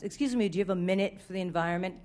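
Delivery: quick, soft, earnest canvasser's line; canvasser's pitch. Retold or imitated. Mocking the clipboard canvasser outside Whole Foods, quick and soft. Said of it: "Don't say it like that".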